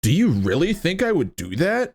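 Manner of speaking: goofy, silly voice. Retold or imitated. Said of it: "goofy, silly voice".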